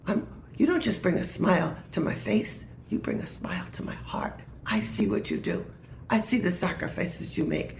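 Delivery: hushed, tender whisper; soft whisper of God. Retold or imitated. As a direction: breathe it gently, almost voiceless. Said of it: "That God's saying".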